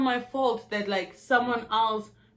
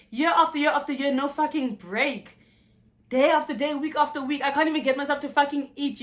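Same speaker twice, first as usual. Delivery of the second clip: raging at God; 4 semitones higher than usual. Retold or imitated. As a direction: spit the anger upward. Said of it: "I spoke my mind".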